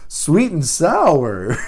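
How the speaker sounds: slow, laughing sweet and sour; laughing wow. Real, not acted. Dad laughing as he answers his daughter, slow laughing. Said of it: "And I said".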